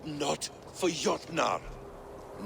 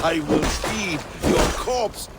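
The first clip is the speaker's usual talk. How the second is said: loud threat; 5 dB louder than usual. Acted. Mid-fight threat to Odin.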